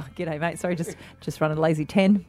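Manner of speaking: casual brag. Acted. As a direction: toss off the boast as if it's nothing. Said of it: "do a bit of a brag".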